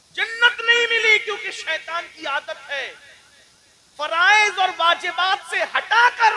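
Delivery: high, loud drawn-out cry; preaching lament. Real, not acted. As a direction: lament it slowly at full voice. (بلند آواز میں آہ و زاری)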